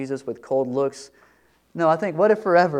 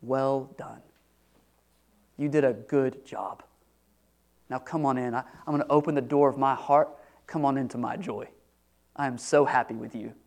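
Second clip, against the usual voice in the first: tender God voice; 2 semitones lower, 4 dB quieter than usual. Acted. God voiced welcoming home.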